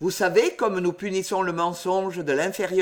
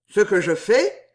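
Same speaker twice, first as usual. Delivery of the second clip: growl; 2 semitones higher, 5 dB louder than usual. Acted. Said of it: "gronda-t-il".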